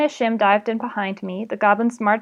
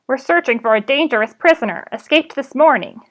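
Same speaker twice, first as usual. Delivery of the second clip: loud goblin, rising higher; 4 semitones higher, 5 dB louder than usual. Acted. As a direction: bark the news like a goblin hunter. Goblin announces the hunt.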